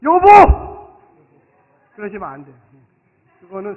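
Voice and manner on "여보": higher, loud call of "여보!". Shown as a demonstration. Pastor demonstrating how husbands should answer, loud. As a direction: call out to your wife with full force. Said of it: "한번 큰 소리로 따라하세요".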